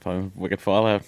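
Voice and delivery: casual Boston twang; Boston accent. Acted. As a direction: say it like a Boston local. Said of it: "I talk like that".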